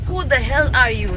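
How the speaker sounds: mock filmy delivery, stressing the; dramatic film line. Retelling the song line to friends, mock dramatic. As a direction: quote the movie line with drama. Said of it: "ऐसे type का ना".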